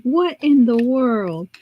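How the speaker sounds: very slow, drawn-out disbelief; mock bafflement. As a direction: imitate a man who is utterly stumped. Imagined man's bafflement at home.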